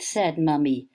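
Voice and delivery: put-on lively storybook reading for children; reading poem to children. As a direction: read it aloud like to a class of kids.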